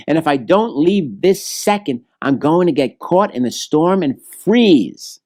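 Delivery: a little bird afraid of freezing; a hint of a frightened little bird; bluebird. Bluebird fears the storm.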